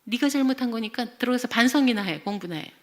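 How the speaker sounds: acted stern dismissal; angry mother. Mother sends child away to reflect, angry. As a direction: order the child off to reflect, mock-cross. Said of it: "딱 이제 그렇게 화를 내는 거예요".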